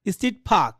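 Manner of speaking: "ফাঁক" with puffed P and no R; native-style "park". Shown as a demonstration. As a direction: say "ফাঁক" as English speakers would, R dropped. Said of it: "এমনি তারা বলবে".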